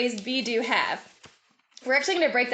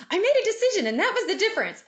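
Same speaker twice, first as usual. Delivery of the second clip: mock stage speaker; 10 semitones higher, faster than usual. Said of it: "you might hear people say".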